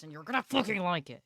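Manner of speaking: playful fake aggression; mock threat. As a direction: boss chat around, jokingly.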